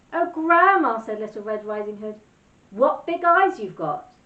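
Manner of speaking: Little Red Riding Hood. Acted. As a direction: gasp it out in innocent wonder.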